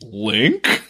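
"Link?" with a rising, questioning tune; imitated last word, "Link" lifting at the end. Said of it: "saying Link like that was so fucking funny".

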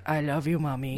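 lightly voiced creepy little kid; creepy child voice.

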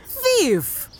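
high-pitched cry of alarm; farmer's yell. Acted. Farmer finding tortoise in his yams, high yell. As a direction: raise the alarm on one high word. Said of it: "yelled the farmer".

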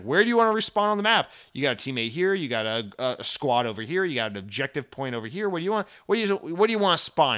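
imitating an eager game interface; game menu voice. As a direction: rattle off the options like a pushy menu. Voicing the game's respawn menu.

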